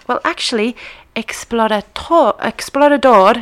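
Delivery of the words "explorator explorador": explorador slowly, Spanish-style, ending in "dor"; Spanish pronunciation. Shown as a demonstration. Host explaining the quiz answer, explorador pronounced as Spanish. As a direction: sound out explorador in Spanish, stress at the end. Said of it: "is Spanish".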